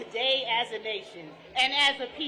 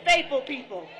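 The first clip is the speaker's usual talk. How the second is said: louder response line for the crowd; rally call, louder; call-and-response shout; 5 dB louder than usual. Real, not acted. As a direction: belt it for the crowd.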